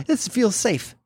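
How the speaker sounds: high ironic mock reassurance; high mock quote. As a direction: pitch it up, dripping with irony.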